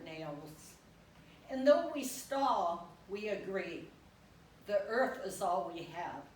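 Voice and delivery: deliberate poem recital with pauses between lines; poetry reading. Acted. Poet honoring husband before an audience, poetry reading. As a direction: let each line of verse stand alone.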